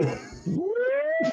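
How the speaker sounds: very high squealed sound effect; eyes-widening noise. Acted. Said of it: "And his eyes go".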